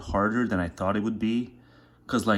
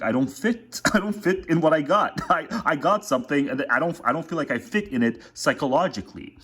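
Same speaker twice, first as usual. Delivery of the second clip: mock whiny voice; 6 semitones higher than usual. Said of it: "when they say".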